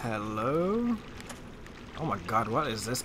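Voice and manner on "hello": quiet hello. Real, not acted. Calm call into new room.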